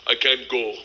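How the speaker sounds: put-on low Russian-accented gangster; a hint of a Russian gangster's accent; lightly voiced Russian accent. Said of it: "I say to Igor".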